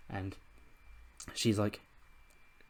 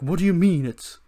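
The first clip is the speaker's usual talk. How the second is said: higher, louder surprised question; mock shocked; 7 semitones higher, 5 dB louder than usual. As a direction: blurt it out in disbelief. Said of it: "And Roman's like".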